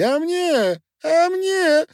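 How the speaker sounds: very high, loud squeaky little voice begging; squeaky pleading miller. A narrator's reading. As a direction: whine it like a tiny drunk man. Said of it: "заворочился на груди мельник".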